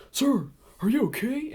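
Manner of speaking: high-pitched Southern good Samaritan; southern accent. Retold or imitated. Guy checks on the crashed driver, Southern accent. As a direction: put on a high Southern twang. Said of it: "He had a southern accent".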